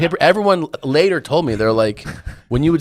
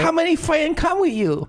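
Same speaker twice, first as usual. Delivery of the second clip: much higher put-on Asian accent; mock Asian accent. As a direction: sushi chef greeting in a mock Asian accent. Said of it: "the most racist Asian accent".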